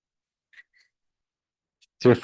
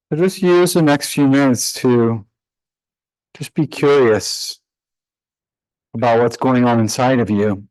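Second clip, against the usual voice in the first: measured meditation guidance with long pauses; guided meditation. Real, not acted. Yoga teacher leading students into breath practice, guided meditation voice. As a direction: guide them calmly through the breath, leaving space between phrases.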